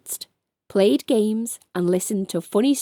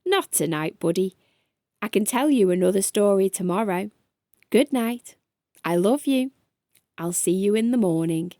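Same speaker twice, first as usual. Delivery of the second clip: gentle dad voice; 2 semitones lower than usual. Acted. Dad tucking child in.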